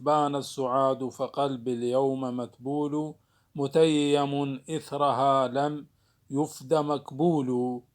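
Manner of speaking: slow measured verse reading; poem recitation. Shown as a demonstration. Teacher reciting an example verse to students. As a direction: chant the line of poetry slowly. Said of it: "مثل ما موجود في هذا البيت".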